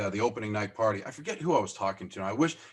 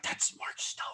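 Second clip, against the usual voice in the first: starstruck whisper; 6 dB quieter than usual. Retold or imitated.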